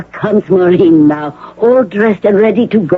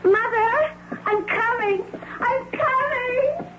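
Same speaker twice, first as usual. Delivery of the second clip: high, crying call to mother, fading softer; 12 dB quieter, slower than usual. Acted. Maureen crying out to her arriving mother, tearful. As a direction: sob it out toward her.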